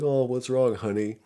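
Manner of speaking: waitress asking a crying customer what's wrong, caring; sympathetic waitress. Retold or imitated. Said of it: "the waitress is like".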